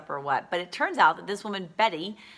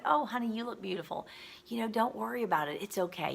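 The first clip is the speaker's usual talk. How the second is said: retold gracious reassurance, higher and gentle; Mary Kay; 4 semitones higher, 3 dB quieter than usual. Company founder comforting an embarrassed new director, gracious and warm. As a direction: soothe kindly in a lightly raised pitch. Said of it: "She was so gracious".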